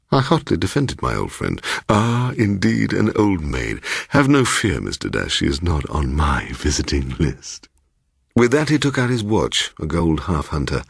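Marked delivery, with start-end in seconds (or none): 1.9-7.7 lightly voiced fussy old man; a hint of a pompous host; eccentric old gentleman. Mister Bloom.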